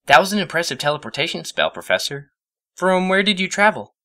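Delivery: high curious mare; polite eager question; Twilight's voice. A narrator's reading. Twilight asks the professor about his spell, high and curious.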